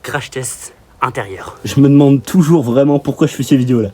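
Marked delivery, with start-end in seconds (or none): 1.6-3.9 loud. Real, not acted. Loud effortful riding.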